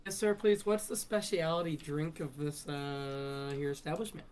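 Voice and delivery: polite character voice. Acted. Player voices character to waiter.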